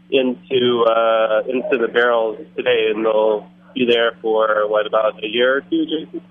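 on speakerphone in a noisy bar; talking over speakerphone; phone speaker. Real, not acted. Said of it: "So we'll try to put on speakerphone".

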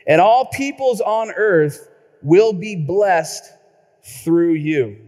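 emphatic preacher's scripture read. Acted. Pastor reading Genesis aloud to the congregation, declaiming. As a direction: declaim the verses.

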